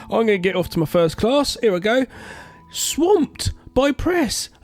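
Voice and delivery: hammed-up heroine sweeping off to class; mocking Sydney.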